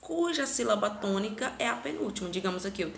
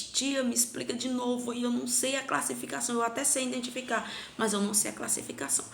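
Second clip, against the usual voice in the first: higher, fast pleading student voice; lightly voiced student begging for help; confused student; 4 semitones higher, faster than usual. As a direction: play a pupil asking the teacher to explain again.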